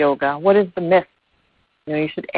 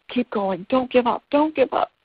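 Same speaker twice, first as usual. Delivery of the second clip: rising, pleading encouragement, higher each time; encouraging frog; 8 semitones higher than usual. Acted. Second frog urging the first to keep swimming, rising and higher. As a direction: urge your friend on as the pitch climbs. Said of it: "The other frog says".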